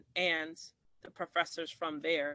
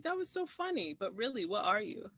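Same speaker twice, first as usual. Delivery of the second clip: mock giggly professor; 4 semitones higher than usual. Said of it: "She's like".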